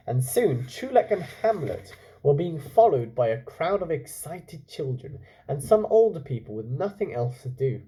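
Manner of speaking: calm storytelling voice; story narration. A narrator's reading. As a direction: read it like a bedtime story. Reads story aloud.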